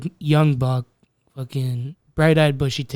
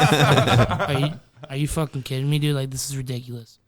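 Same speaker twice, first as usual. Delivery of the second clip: sulky complaint; 2 semitones lower than usual. Retold or imitated. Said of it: "I took that route".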